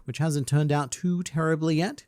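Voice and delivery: "yet" given pointed emphasis at the end; stress on YET. Real, not acted. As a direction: lean on the final "yet", pitch lifting. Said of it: "emphasis on the word yet".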